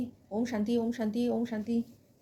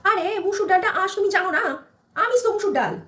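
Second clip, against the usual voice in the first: stubborn mother-in-law; 4 semitones higher than usual. Acted. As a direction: shoo the bride out of the kitchen.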